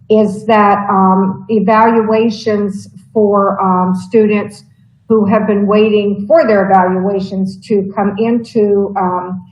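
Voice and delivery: halting, stumbling over words; hesitant and broken, searching notes; stammering. Real, not acted. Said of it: "I realize I'm stammering".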